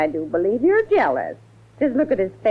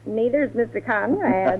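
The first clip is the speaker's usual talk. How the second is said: laughing tease; 2 semitones higher than usual. Acted. Housekeeper teasing, laugh heard.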